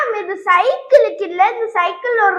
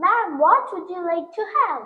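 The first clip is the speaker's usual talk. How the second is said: softer, very slow waiter's question; slow waiter English; 2 semitones lower, 7 dB quieter, much slower than usual. Acted. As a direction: repeat the order slowly for her. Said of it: "இன்னொரு தடவை சொல்லு".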